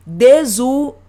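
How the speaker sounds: "desunião" broken into separate syllables with pauses. Shown as a demonstration. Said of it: "desmembram-se para formar outra sílaba". ("desunião" dito pausadamente, sílaba por sílaba)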